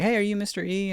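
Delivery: high, chummy mock dad greeting; imitating dad. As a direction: greet the teacher like an overfriendly dad. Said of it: "he was like".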